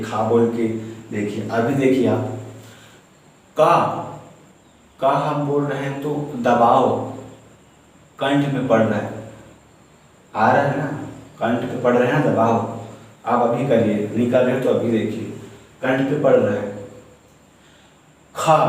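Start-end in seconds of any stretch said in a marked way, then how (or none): 3.6-3.8 का voiced from the throat, held apart; demonstrated sound. Shown as a demonstration. Teacher showing students the throat sound, slowly. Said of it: "आप का बोल के देखिए". 18.4-18.6 खा said alone with a throat push; demonstrated sound. Shown as a demonstration. Teacher demonstrating a throat consonant for the class. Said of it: "खा बोलने से कंठ में".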